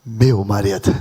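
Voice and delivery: very low, deep "meu marido"; savoured intonation. Shown as a demonstration. Preacher modelling it for every wife present, savoured low intonation. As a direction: sink the pitch and say it with weight. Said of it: "com essa entonação".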